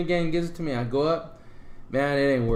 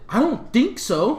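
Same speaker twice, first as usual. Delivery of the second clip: laughing disbelief; 10 semitones higher, slower than usual. Retold or imitated. Clerk asks if someone's in room.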